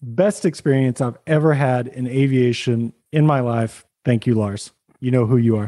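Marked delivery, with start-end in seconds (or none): 4.0-5.7 low, sincere thank-you to Lars; mean it, plain and grateful. Real, not acted. Honest thanks for the best trip.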